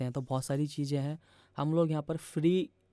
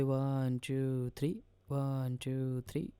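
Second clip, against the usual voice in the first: teacher counting three-four time; counting beats; 4 dB quieter, much slower than usual. Shown as a demonstration. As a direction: count "one, टू, three" slowly and softly in strict time. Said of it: "अब अगर मैं इसको three कर दूँ".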